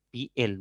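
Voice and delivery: "piel" broken into pi and el; wrongly split syllables. Shown as a demonstration. Teacher repeating what cannot be done, "piel" split as pi-el. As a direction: say "piel" as two separate syllables. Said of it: "no puedo".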